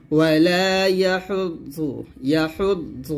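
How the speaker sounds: slow يحض with a heavy, full "ض"; weight the last consonant of يحض; thick dad. Shown as a demonstration. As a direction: make the ض in يحض thick and emphatic. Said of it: "ضاد এটা মোটা করে".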